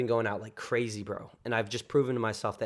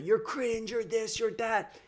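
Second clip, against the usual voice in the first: mocking the toxic guy, pitched up; whiny mock insults, higher; mock toxic yelling; 11 semitones higher, slower than usual. Showing viewers their negative thoughts as a toxic heckler, hammed-up high mockery. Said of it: "you're yelling at".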